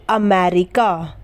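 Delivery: अमेरिका slowly, short अ at the start; modelling a word. Shown as a demonstration. Teacher models अमेरिका for students, slow and clear. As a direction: sound out अमेरिका deliberately. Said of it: "यहाँ पर ए की sound क्या आई".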